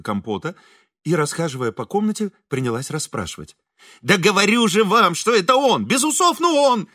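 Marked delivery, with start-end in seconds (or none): 4.0-6.9 excited higher insisting; shouting. A narrator's reading. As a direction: insist loudly that it is him. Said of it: "по обыкновению кричал".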